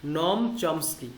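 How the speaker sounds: নম said with a short o, as nɔm, slowly; slow, careful নম চমস্কি; Chomsky's name, slowly. Shown as a demonstration. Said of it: "আমি বলি যে নম". (ধীরে স্পষ্ট নাম উচ্চারণ)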